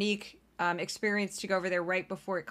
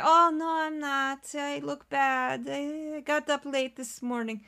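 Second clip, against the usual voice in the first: high, drawn-out self-deprecation in mock Russian accent; bad Russian accent; 6 semitones higher, slower than usual. Mimicking American woman refusing a compliment, bad Russian accent. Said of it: "And in America, we say".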